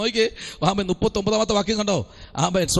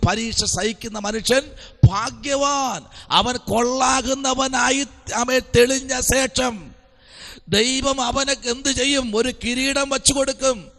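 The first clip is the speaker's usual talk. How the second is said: declamatory preaching; 5 semitones higher than usual. Acted. Preacher proclaiming the crown promised to the one who endures, declamatory. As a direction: ring out each phrase of the verse.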